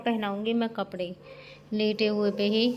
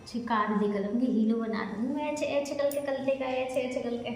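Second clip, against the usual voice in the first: tender cooing; 2 semitones higher, 4 dB quieter than usual. Real, not acted. Making papa a hero, soft tender cooing. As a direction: coo quietly while fussing over him.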